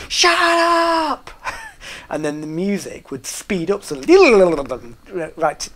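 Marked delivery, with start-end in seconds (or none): 0.1-1.3 sudden loud sergeant-major shout, much higher; barked shout. Retold or imitated. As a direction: bark it at the whole room. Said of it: "you'd just hear the voice of him going".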